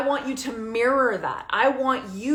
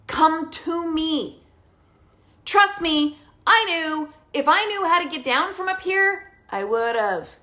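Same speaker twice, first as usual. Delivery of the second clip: put-on pleading teen; 6 semitones higher than usual. Teen voiced pleading from the tree.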